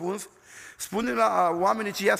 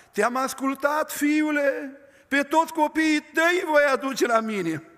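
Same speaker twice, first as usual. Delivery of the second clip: prophesying; 4 semitones higher than usual. Retold or imitated. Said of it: "începea să prorocească".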